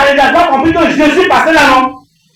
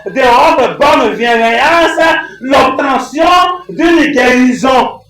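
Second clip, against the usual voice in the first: slow, lower, measured letter-style delivery; mock formal request; 3 semitones lower than usual. Preacher mocking a polite request for healing, stiffly formal. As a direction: recite it slowly like an official petition. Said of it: "Est-ce qu'il a dit".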